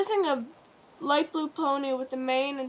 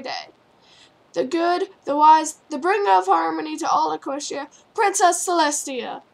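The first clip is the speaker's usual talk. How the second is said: announcing mayor; 4 dB louder than usual. Acted. Mayor introduces the princess.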